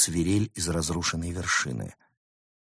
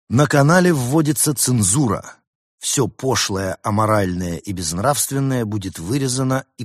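louder, higher, emphatic decree reading; official proclamation; 3 semitones higher, 4 dB louder than usual. A narrator's reading. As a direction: proclaim it like a stern directive to staff. Reads out director's decree. (торжественное зачитывание указа)

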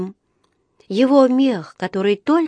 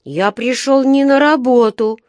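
indignant little bear, higher and louder; возмущённо; 5 semitones higher, 6 dB louder than usual. A narrator's reading. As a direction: protest with indignation. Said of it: "возмутился Паддингтон". (возмущённо, повыше и погромче)

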